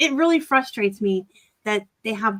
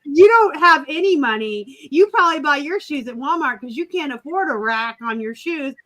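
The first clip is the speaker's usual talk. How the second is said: snooty teen mockery; 4 semitones higher, 4 dB louder than usual. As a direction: sneer it like a bratty rich kid. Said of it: "these young kids who basically responded".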